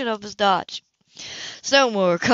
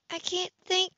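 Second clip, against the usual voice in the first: overwhelmed woman; 11 semitones higher, 6 dB quieter than usual. Acted.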